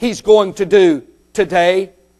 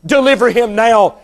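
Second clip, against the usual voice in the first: preacher imitating a sarcastic scoffer. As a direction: dare it with mock conviction. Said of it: "listen to this sarcastic attitude".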